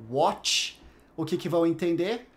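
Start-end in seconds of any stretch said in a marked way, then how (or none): 0.1-0.8 "watch", the T of what turned to CH; Brazilian T. Shown as a demonstration. Teacher shows how learners get misunderstood, "watch" with Brazilian CH. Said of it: "se você falar com o T brasileiro".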